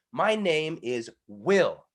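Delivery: slow, stress on "Will" in "My name is Will.". Shown as a demonstration. Coach finding the right stress on "Will". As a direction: land the weight on "Will" in "My name is Will.". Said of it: "There we go. I wanna emphasize my name".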